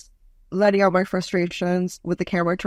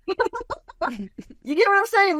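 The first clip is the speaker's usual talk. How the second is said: high, slow words through laughter; real laughter breaking up the words; laughing; 11 semitones higher, much slower than usual. Real, not acted. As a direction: crack up while checking they get it. Cracking up at own innuendo.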